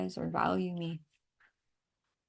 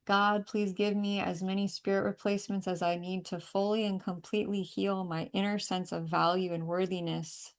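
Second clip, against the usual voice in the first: earnest prayer. Acted. Healer praying aloud over the client, firm and earnest. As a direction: pray it out with conviction.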